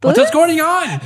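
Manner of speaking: high squeaky bee. Pretend. The bee voiced asking what's going on, squeaky. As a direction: squeak it like a baffled little bee. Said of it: "he's like".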